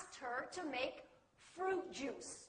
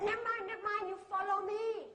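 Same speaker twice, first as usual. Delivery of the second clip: insistent local Malaysian English, slightly higher; 4 semitones higher, much faster than usual. Retold or imitated. Local woman waving off a confused foreigner, insistent local English. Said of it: "She said".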